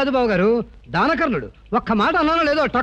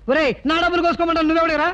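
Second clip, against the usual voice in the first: scolding; 2 semitones higher than usual. Acted. Scolding quarrel with a friend.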